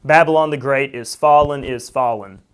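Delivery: repeated line for emphasis; repetition emphasis. Shown as a demonstration. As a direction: lean on the repeated fallen. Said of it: "you do have the repetition there".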